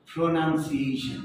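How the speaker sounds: "প্রোনাউন্সিয়েশন" said slowly with a "nun" middle; correct pronunciation. Shown as a demonstration. Teacher demonstrating correct pronunciation and accent, slow careful model. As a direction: model "প্রোনাউন্সিয়েশন" unhurriedly, nun not noun. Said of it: "এটা হচ্ছে সঠিক উচ্চারণ এবং accent".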